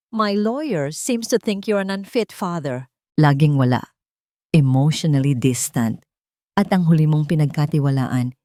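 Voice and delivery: scornful accusation. Acted. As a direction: lay out the charges with contempt. Dayang accuses Raja.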